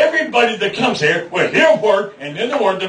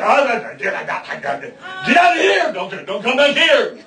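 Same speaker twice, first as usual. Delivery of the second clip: panicked shout; 4 semitones higher than usual. Retold or imitated. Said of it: "So they say".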